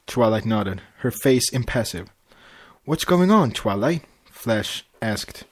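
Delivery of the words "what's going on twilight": worried. Acted.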